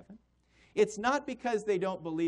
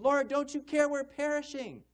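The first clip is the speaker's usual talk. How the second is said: higher and louder, a panicked plea to the Lord; frightened cry; 8 semitones higher, 4 dB louder than usual. Retold or imitated. Disciples in the storm crying out to the Lord, panicked. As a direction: cry out in fear of drowning. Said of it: "They cried out to him".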